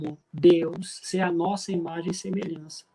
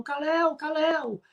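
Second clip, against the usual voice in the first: high-pitched mock yell, no real shouting; retold frantic call; 9 semitones higher, slower than usual. Father calling his lost son in a procession, high retold cry. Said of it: "eu comecei a gritar na procissão".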